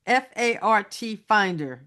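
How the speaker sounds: each letter spelled out slowly. Shown as a demonstration. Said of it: "What Finder?".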